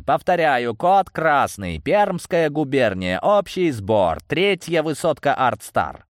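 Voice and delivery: high, loud call to arms; urgent command. A narrator's reading. Leader summoning the province by phone, commanding. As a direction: announce the alarm forcefully.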